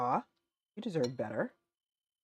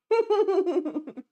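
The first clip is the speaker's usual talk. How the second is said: loud laugh that falls away; 12 semitones higher, 5 dB louder than usual. Real, not acted. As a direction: laugh hard at the joke. Streamer laughs at chat.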